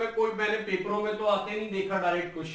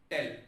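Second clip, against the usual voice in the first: 'टेल' alone after a pause; syllable split; 3 semitones lower, 3 dB quieter than usual. Shown as a demonstration. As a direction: say 'टेल' as a detached second syllable. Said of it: "रुक गया". ('टेल' को अलग अक्षर-खंड की तरह बोलें)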